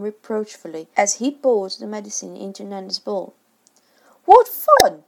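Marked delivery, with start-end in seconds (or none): 4.3-5.0 doubtfully. A narrator's reading. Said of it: "he said doubtfully".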